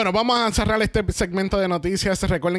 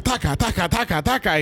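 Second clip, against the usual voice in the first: rhythmic repeated knocking noise; imitated banging; 2 semitones higher than usual. Host imitates what a house microphone would pick up, rhythmic banging. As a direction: rattle out the noise in an even beat. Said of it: "empieza a escuchar el taca".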